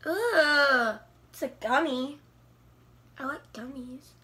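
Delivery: small bite in mouth; nibbling candy between words; talking while chewing. Real, not acted. Seen 0: Holds small gummy, repeatedly bites it at mouth while talking.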